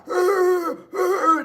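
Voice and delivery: high, loud mock reptile roar; reptile growl. Showing how they sound beating their chest, loud reptile growl. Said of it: "that's how they sound".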